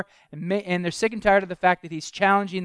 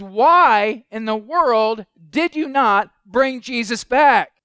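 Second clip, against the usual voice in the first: indignant leaders confronting their men, pressing hard; demanding Pharisees; 2 semitones higher, 4 dB louder than usual. Acted. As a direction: scold the officers for failing. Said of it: "the question that the Pharisees have is".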